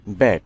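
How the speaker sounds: ব্যাক with one k sound for CK; silent C. Shown as a demonstration. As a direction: say ব্যাক, no separate C sound before the k. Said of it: "সি এর উচ্চারণ হয়নি". (ব্যাক, সি অনুচ্চারিত)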